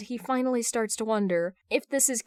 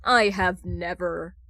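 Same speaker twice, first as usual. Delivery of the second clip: slow, flat denial; deadpan slow denial of the obvious; blatant lie; 4 dB louder, slower than usual. Acted. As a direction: deny it slowly, bold-faced. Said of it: "Bruce blatantly lies".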